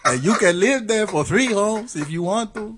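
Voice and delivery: attempted Mexican accent. Neighbor offers to build a house, in a mock Mexican accent. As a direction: drag out a jokey Mexican accent, half laughing. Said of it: "can't do a Mexican thing".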